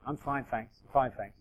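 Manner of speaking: a worn-out mock "I'm fine, thanks"; limping but fine. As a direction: quietly insist you're fine while hurting. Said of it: "they're limping".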